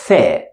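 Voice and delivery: tongue out, unvoiced the; Arabic letter sound. Shown as a demonstration. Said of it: "We pronounce it".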